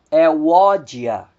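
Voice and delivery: "Euódia" stressed on "ó"; Greek diphthong demo. Shown as a demonstration. Teacher modelling the Greek name for students, stressing "ó". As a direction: land on "ó" in "Euódia". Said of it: "o acento recai sobre a segunda vogal".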